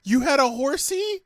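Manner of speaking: high cooing "horsey"; sing-song pity for "horsey". Real, not acted. Teasing baby talk.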